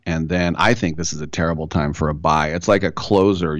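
normal talking voice

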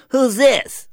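high, loud, suspicious demand; witchy ex-wife. Retold or imitated. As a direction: imitate a hostile ex answering the phone. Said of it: "in her witchiest".

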